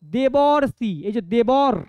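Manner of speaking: দেবর্ষি firmly pronounced, then broken off at দেবর to show the "or"; careful pronunciation. Shown as a demonstration. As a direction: model the "or" sound in দেবর্ষি and দেবর for students. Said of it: "উচ্চারণটা খেয়াল করো তো".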